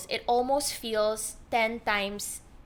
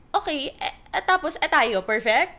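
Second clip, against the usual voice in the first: sarcastic; 5 semitones higher, 7 dB louder than usual. Retold or imitated. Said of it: "I'd be like".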